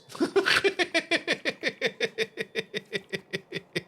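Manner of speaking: long, high laugh that runs on and on; real laughter. Real, not acted. Streamer amused by own talk of tentacles, long real laughter. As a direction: laugh helplessly in a long, fading run.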